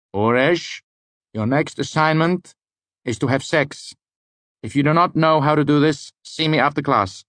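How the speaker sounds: high-pitched eccentric lecturer, deliberate; Elodin. Acted. Lecturer giving a serious assignment to his student, high-pitched.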